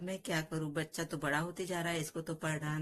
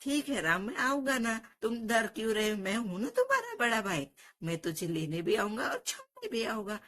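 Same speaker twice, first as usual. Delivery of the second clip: reassuring big brother; 5 semitones higher than usual. Acted. Kanha reassures little brother.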